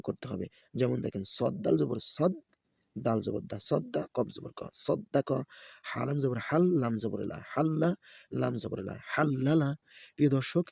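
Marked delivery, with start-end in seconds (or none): 1.4-9.7 sing-song letter-by-letter chant; Quran-primer teacher's recitation; spelling drill recitation. Shown as a demonstration. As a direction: spell each syllable, then lift the joined word. Spells out Arabic syllables for learners.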